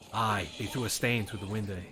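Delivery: put-on Scottish words in an American accent; lightly imitated American accent with Scots dialect. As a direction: mimic an American friend speaking Scots. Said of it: "with just his normal accent".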